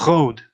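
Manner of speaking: "road" with a guttural French R; "road" as a French speaker says it in English; French-accented R. Shown as a demonstration. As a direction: scrape the R of "road" in the throat. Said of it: "someone from France is speaking English".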